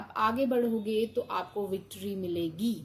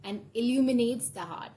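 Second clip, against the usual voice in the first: very slow, louder, word-by-word reading of the card text; 2 semitones higher, 4 dB louder, much slower than usual. Acted. Tarot reader reading the card's message to the viewer, slow and deliberate. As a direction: read it out like an oracle pronouncing. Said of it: "let's see इस पे क्या लिखा है".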